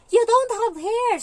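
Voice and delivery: high, loud, slow taunting yell; mock a bald kid at full volume; a hyper child teasing another child; teasing shout. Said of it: "inuurat yung alaga niya".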